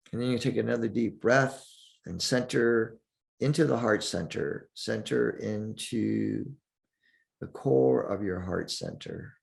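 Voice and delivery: calm meditation guide with long pauses; unhurried, leave space between the phrases; guided meditation. Acted. Teacher guides listeners through breathing and centering, guided meditation.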